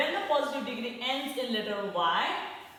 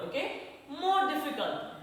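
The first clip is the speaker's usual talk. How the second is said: more leaned on before difficult; stress on more; 5 semitones higher than usual. Shown as a demonstration. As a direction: press on more so the class hears the rule. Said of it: "put more before the positive word".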